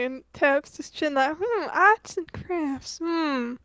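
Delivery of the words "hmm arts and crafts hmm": slow and softer, drawn-out pondering; thoughtful musing. Acted. Archie tapping his chin over arts and crafts, slow musing.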